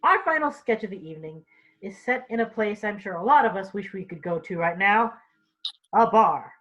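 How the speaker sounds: usual speaking voice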